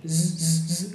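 "z" held as a little fly's buzz. Shown as a demonstration. Teacher reminding learners of a mosquita, buzzing Z. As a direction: buzz each "z". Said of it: "acuérdense de una mosquita".

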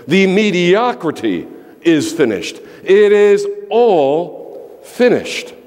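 rising, slowing, each finished driven home harder; preacher's crescendo, ending drawn out and high; building proclamation. Real, not acted. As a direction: build it up line by line to a final slow cry.

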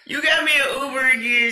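high, loud disbelieving "again?"; startled disbelief at a surprise ride; surprised. Retold or imitated. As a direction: caught off guard, pitch jumping up. Her own startled reply.

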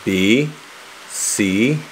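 slow alphabet with trays in; careful letters through aligners. Shown as a demonstration. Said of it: "I wanna say my A B Cs".

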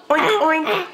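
put-on playful oink for a toddler; mock pig noise for a child. Shown as a demonstration. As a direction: oink like a pig, light and bright. Parent voices pig for toddler.

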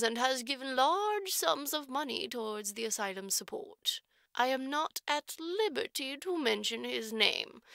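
lightly voiced orphanage matron, measured and formal; a hint of a prim matron choosing her words; stern matron. Matron tells Jerusha about the trustee, prim and formal.

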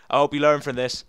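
acting a script line in an American accent; American accent attempt. Shown as a demonstration. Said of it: "watch my last line scripts".

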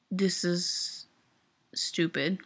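breathy unvoiced whisper of disgust; whispered aside. Real, not acted. Fan venting to viewers, whispering in disgust. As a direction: drop to a whisper on the word. Upset fan muttering to herself.

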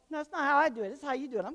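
high, loud mock-indignant wife; hammed-up wife refusing; wife's protest. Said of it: "my wife's standing there going".

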